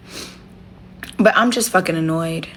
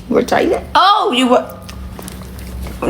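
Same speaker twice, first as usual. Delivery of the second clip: cooing; 9 semitones higher, much slower than usual. Real, not acted. Cooing to her pet.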